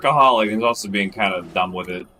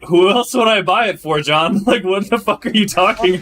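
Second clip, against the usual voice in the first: incredulous question; 11 semitones higher, 8 dB louder than usual. Retold or imitated. Retelling confusion about gift.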